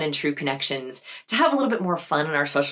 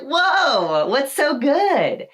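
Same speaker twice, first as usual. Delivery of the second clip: excited curiosity; 6 semitones higher, 3 dB louder, much slower than usual. Retold or imitated. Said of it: "people are like".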